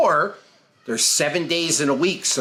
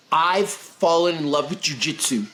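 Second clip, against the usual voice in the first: passionate sincere; 2 semitones lower than usual. Retold or imitated. Student telling the coach he loves it, sincere. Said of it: "what would impress me is".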